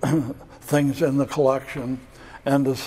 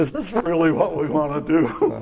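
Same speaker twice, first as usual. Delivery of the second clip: laughing while speaking; 3 semitones higher than usual. Recounting what the group asked each other after that experience, laughing while quoting.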